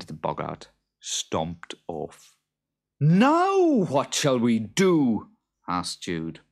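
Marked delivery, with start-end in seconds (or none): 3.0-5.3 high, slow worried farmer; Jude's voice. Acted. Jude asking his wife what to do, high and slow. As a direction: ask it loud and fretful.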